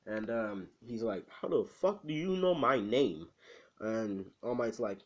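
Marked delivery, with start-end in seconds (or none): 1.3-3.3 mock outraged question, a bit higher; retold indignant demand. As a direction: act out startled disbelief. Retold startled demand to All Might.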